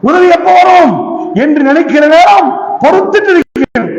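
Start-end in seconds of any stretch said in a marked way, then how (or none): 0.1-0.9 raised plea. Acted. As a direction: call up to God for help. Same plea repeated, raised.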